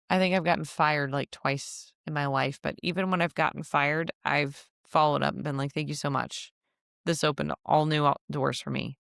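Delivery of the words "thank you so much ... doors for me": sincere thanks. Retold or imitated. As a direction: thank them warmly and mean it. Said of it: "Not in a passive aggressive".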